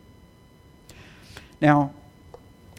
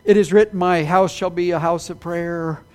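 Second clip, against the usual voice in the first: whiny voice. Retold or imitated. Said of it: "in a somewhat whiny voice said".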